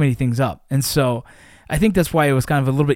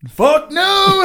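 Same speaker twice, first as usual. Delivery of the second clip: mock yell, much higher and louder; retold yell; 5 dB louder than usual. Soldier retelling how he fled a hovering light, mock yell. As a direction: blurt it like you're bolting in a panic.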